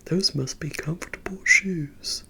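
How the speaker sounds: a hint of a film impression on the line; Forrest Gump. Retelling a friend's impression to viewers, lightly imitated. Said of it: "He did the part where Forrest is like".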